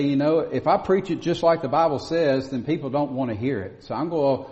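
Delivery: lampoon the preacher who waters it down; rising to a squeaky peak on "kind of believe"; mocking a watered-down preacher. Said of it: "They'll say".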